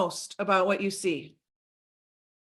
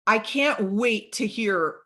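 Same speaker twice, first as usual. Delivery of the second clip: created excitement. Shown as a demonstration. Coach demonstrating a video send-off to a prospect, mildly excited. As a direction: show some manufactured excitement. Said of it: "Can you hear the excitement in my voice?".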